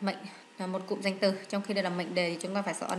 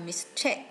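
mistake stressed on the second syllable, mis-TAKE. Shown as a demonstration. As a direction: put the weight on TAKE in mistake. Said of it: "nhấn âm hai".

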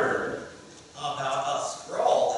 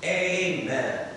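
leading prayer; 4 semitones higher, 4 dB louder than usual. Shown as a demonstration. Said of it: "everyone repeat after me".

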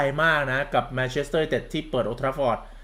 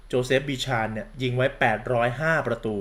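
normal talking voice

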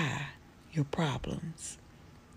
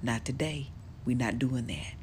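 firm refusal; 3 semitones lower than usual. Shown as a demonstration. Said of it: "just say".

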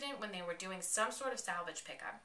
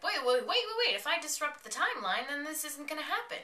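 high, loud frantic interruption; retold panicky "hold on"; urgent alarm; 8 semitones higher, 5 dB louder than usual. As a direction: cut in urgently, pitched way up. Retold Doctor urgently stopping her.

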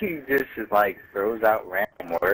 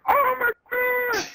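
dramatic gasp. Pretend. Mock dramatic reaction.

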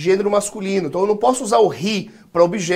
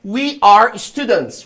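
slow, drawn-out words for repeating; slow model sentence; much slower than usual. Shown as a demonstration. Teacher to students for repetition, slow modelling. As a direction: model each word slowly for the class.

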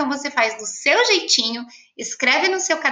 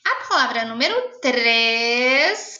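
slow dictation; slower than usual. Shown as a demonstration.

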